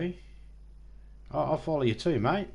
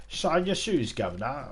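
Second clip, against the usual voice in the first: hint of English street accent, pitched up on the shoes; bad English accent; 3 semitones higher than usual. Shown as a demonstration. Guessing at someone's English speak, half-hearted English accent. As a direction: lightly attempt a cockney-style English accent. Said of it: "I can't even do accents properly".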